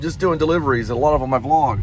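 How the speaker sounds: talking through hiccups; hiccupping between words. Real, not acted. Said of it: "Sorry, I got the hiccups".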